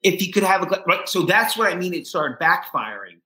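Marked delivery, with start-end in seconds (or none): 0.0-0.8 pointed therapist remark. Retold or imitated. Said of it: "He goes".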